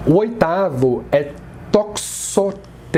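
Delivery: slow, careful "Toxotes"; "Toxotes" said slowly like a teacher; Greek word said slowly. Shown as a demonstration. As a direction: spell out "Toxotes" syllable by syllable. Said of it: "Aqui a sílaba mais forte é".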